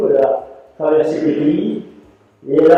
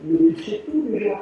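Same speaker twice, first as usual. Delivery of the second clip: mock astonished master, higher; the amazed old master, pitched up; 5 semitones higher than usual. Master surprised by Michel's knots, astonished. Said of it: "il est très étonné".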